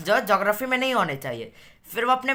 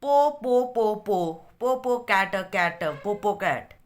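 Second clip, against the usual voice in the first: stumbling attempt; much slower than usual. Struggling to read out long name.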